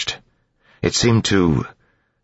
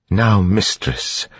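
lucid, gentle; 7 semitones higher, much slower than usual. A narrator's reading. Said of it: "in a surprisingly lucid voice".

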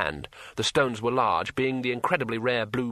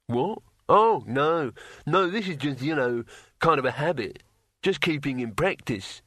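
grinning barbarian voice; 4 semitones higher than usual. Acted. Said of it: "he grinned".

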